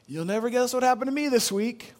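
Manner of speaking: imitating a friend's high-pitched announcement; retold incredulous news. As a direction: lift the pitch as if breaking unbelievable news. Friend breaking his news, retold.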